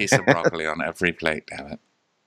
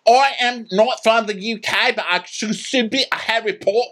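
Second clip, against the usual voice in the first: high, odd put-on voice for Mike; mock weirdo guest. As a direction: do a goofy, higher guest voice.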